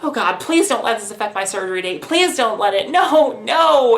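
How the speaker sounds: acted pleading, building to loud high cries; re-enacted desperate plea; retold freaking out. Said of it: "I was freaking out".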